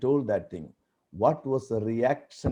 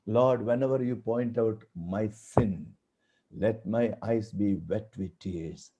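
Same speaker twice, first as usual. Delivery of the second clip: quiet prayer; 5 semitones lower, 6 dB quieter than usual. Retold or imitated. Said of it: "One of my prayers often I do is".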